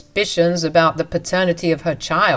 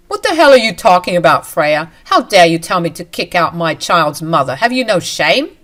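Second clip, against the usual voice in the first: angry shout; 5 dB louder than usual. Acted. Husband yells at wife.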